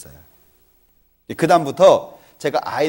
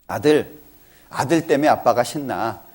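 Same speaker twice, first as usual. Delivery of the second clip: tender praise; 4 semitones lower than usual. Shown as a demonstration. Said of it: "안아주고 등 두드려주면서".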